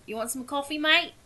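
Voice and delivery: put-on light Australian accent, rising on mate; a hint of Australian. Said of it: "now I have to get my accent".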